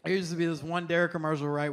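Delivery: usual speaking voice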